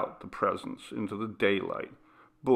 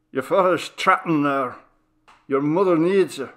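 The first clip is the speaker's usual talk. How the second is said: higher, louder alarmed voice on the phone; Doctor Flynn calling the son about the fire, alarmed; urgent doctor; 6 semitones higher, 6 dB louder than usual. Acted. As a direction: break the bad news fast.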